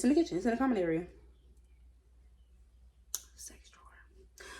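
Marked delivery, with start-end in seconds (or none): 3.4-4.5 breathy slow whisper. Real, not acted. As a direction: whisper it like a secret. Whispered aside.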